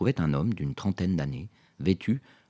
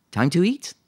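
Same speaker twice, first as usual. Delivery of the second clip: a lightly voiced childlike ask, higher; almost childlike; 13 semitones higher, 8 dB louder than usual. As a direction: ask it like a hopeful little kid. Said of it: "d'un ton presque enfantin".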